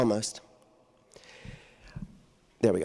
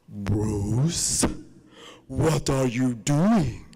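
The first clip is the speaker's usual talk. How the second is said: stern teacher; 3 semitones lower, much slower than usual. Retold or imitated. And then the voice.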